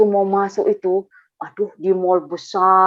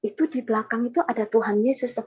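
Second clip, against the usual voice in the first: softer, quick retold aside; confiding aside; 6 dB quieter, faster than usual. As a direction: tell the friend discreetly, in a hurry. Confiding vision to friend.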